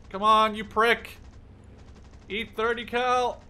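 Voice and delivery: will the bullets into him; angry. Real, not acted. Gunner shouting at the enemy plane he's shooting, angry.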